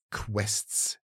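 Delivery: hushed echo of QUESTS; echo in the head. A narrator's reading. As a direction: let QUESTS linger as a half-voiced thought. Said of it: "klang es in seinem Kopf nach".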